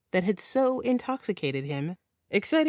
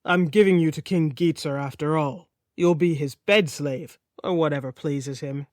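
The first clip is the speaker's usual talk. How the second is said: lightly voiced Sigurd; 4 semitones lower than usual. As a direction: tell her her fate flatly.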